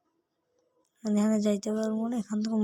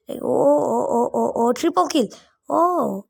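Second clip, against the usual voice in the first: excited shout; slower than usual. Real, not acted. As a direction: whoop at the kill, thrilled. Another triple kill in game.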